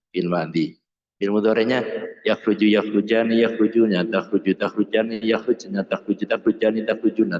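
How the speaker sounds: steady, rote-drill recitation; conjugation recitation. Shown as a demonstration. Teacher runs through Arabic verb conjugations, rote recitation. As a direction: rattle off Arabic word forms in an even run. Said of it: "ditasrif itu".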